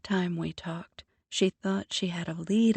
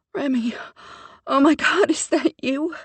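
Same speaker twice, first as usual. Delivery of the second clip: overwhelmed disbelief; 9 semitones higher, 9 dB louder than usual. Acted. Sister hears lost brother, sobbing.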